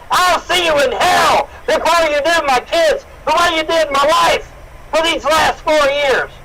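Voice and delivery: real rage at the people he blames; furious shout. Real, not acted. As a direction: yell it at them, raw and enraged. Furious father yelling at accusers.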